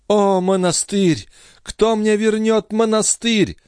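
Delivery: high, slow, tearful wail for the convent; high, slow, weepy young woman; sobbing lament. A narrator's reading. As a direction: cry out longingly, slowly. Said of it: "разрыдалась Лоренцо".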